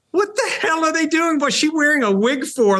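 high, incredulous mock viewer; baffled viewer. Host imitates puzzled viewers reacting to the wig, high and incredulous. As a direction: play a confused fan at home asking what on earth this is. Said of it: "people like".

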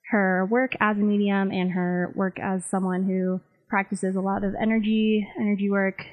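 like a worn tape copy. Real, not acted. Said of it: "Please excuse the audio quality of this interview".

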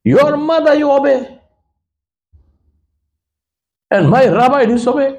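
high, pleading, tearful cry; weeping. Retold or imitated. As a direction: break down as you ask it. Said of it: "He started crying".

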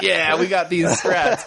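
high, slow laughing brute voice; smug dim-witted troll bragging; goofy troll voice. Retold or imitated. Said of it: "They're like".

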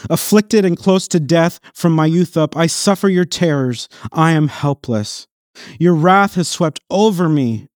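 lightly voiced anguished Christ, fading to near silence; a hint of Christ pleading from the cross. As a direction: cry out as the forsaken Christ. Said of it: "Imagine this is Christ speaking".

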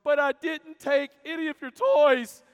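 shrieking at her sister in the back seat; screaming child. Retold or imitated. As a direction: scream it out like a frustrated little kid. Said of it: "screamed at the top of her lungs".

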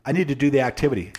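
mock-firm self-command; firm refusal. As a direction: shut the excuse down hard. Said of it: "if we just say".

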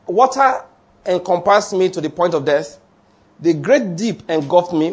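scripture reading. Acted. Reads scripture aloud.

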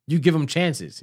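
high, loud mimicking ex-wife; mocking ex's voice. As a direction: mimic her pleading reply. Mocking ex's soft reply.

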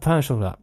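"Pain au chocolat" mumbled quickly and softly; swallowed, quick "Pain au chocolat"; mumbled French. Shown as a demonstration. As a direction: rush "Pain au chocolat" to hide it. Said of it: "mumble a bit. So you're like".

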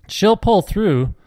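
slow, high call across the field; shouting. Acted. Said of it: "Dave shouted back over to his brothers".

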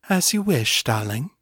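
lightly put-on sultry voice, slowing at the end; seductive Morgan voice. Incubus answers in Morgan's shape.

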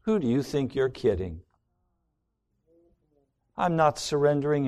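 sneering inner voice refusing to give in; voice of self-love. Acted. Preacher voicing self-love, scornful and defiant. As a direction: play selfish self-love scoffing at surrender. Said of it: "self-love rises up and says".

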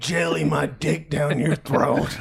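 shouted punchline. Retold or imitated. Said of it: "What's your favorite joke, hobo?".

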